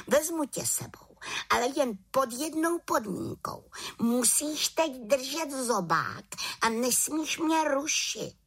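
a small witch who won't give in; determined little witch. A narrator's reading.

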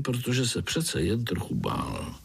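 ordinary delivery

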